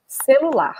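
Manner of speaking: "Celular" said clearly as "se-lu-LAR", with a falling end; Brazilian word demo. Shown as a demonstration. Teacher modelling the Brazilian word "Celular" for learners. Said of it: "we call celular".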